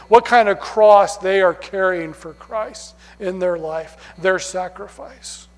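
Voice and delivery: mild mocking tone about martyrs; a touch of sarcasm, mocking the martyr complex; sarcastic mockery. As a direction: lightly sneer at their self-pity. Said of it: "I say that sarcastically".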